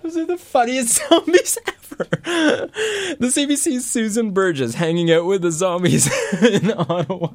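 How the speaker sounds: laughing through the words; chuckling while speaking. Real, not acted. Host laughing after clip.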